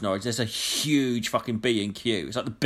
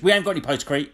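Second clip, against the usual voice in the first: a blunt, slightly louder mock of the shop worker; rude brush-off; 2 semitones higher, 3 dB louder, faster than usual. Shop worker telling the customer there's no stock, rude and curt. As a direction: throw it at him like he's nothing. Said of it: "Like that".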